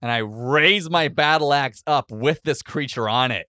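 ordinary delivery

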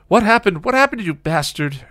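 loud, high, enraged demand; raging shouted question; furious yelling. A narrator's reading. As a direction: yell it as an attack. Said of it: "she yelled".

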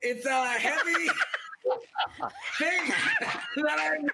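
Schwarzenegger impression. Shown as a demonstration. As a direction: try an Austrian Arnold accent and crack up. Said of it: "that was Terminator and Schwarzenegger".

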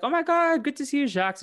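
high, loud delighted cry; hammed-up happy surprise; mock excited greeting. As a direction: greet him with exaggerated relief, voice shooting up. Acting Scooby and Shaggy greeting Jacques.

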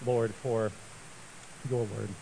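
reverent address with long pauses; prayer. Real, not acted. I'm gonna pray quickly.

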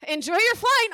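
high, loud mock-cheery send-off; airline staff. Staff sending off a glaring passenger, mock polite. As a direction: imitate an over-polite flight attendant.

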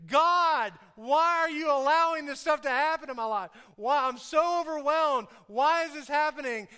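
high, loud plea of the overwhelmed; loud acted complaint. Preacher acting out believers questioning God, loud exasperated plea. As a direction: cry out to heaven in mock desperation.

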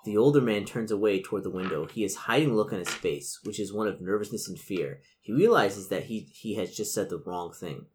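measured gamebook read-aloud; game master narration. A narrator's reading. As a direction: set the scene for the players. Game master reads scene.

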